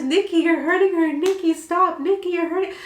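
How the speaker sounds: high-pitched mock pleading yell; imitated urgent shouting. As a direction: mimic alarmed friends calling out over a fight. Retold friends shouting during fight.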